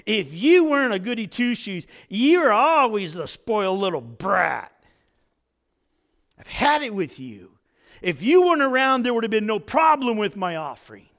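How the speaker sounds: bitter outburst, quickening and rising on the second "if"; Cain's jealous anger. Acted. Cain lashing out at his brother in anger. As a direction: spit it out like a resentful brother. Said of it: "he directs all this anger".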